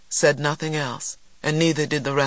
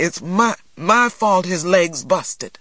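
guilty outburst; 3 semitones higher, 4 dB louder than usual. Acted. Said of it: "exploded guiltily".

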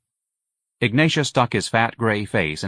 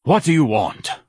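higher, effortful demand; breathless; 6 semitones higher, 4 dB louder than usual. A narrator's reading. Son shouting back through his door, breathless. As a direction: answer irritably as if winded. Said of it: "a breathless voice asked at last".

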